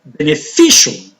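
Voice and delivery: be-ne-FI-cial, peak on FI in "Beneficial"; stress on third syllable. Shown as a demonstration. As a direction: punch the FI in "Beneficial". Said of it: "The stress is on the syllable just before".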